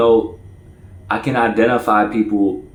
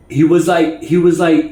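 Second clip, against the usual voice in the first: stutter; 7 semitones higher, 4 dB louder than usual. Real, not acted. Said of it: "Now I'm stutter".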